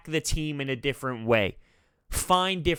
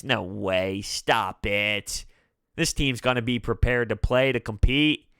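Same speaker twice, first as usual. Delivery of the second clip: mock dismissive; 6 semitones lower than usual. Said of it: "I'd laugh in your face".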